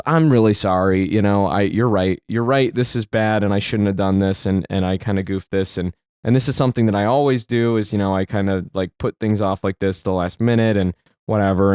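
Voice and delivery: low-pitched, subdued apology; lightly acted contrition, kept low; apologetic. Dad conceding to his upset son, apologetic.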